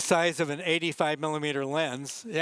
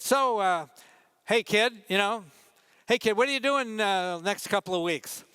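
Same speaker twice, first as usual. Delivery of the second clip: editor; 5 semitones higher than usual. Retold or imitated. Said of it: "I got a call from the editor".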